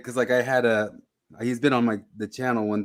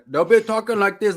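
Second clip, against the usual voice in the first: put-on high, loud Asian-accented British English; caricatured Asian-British accent; mock Asian-British accent; 9 semitones higher, 6 dB louder than usual. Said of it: "Asians who go and learn British English".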